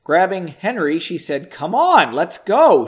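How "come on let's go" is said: urgent, louder character voice. A narrator's reading. Margot grabbing Henry to flee the bar, urgent and loud. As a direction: hurry him along, voice raised.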